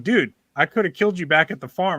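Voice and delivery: half-joking coaxing plea; pleading with possum. Retold or imitated. Talking to the possum.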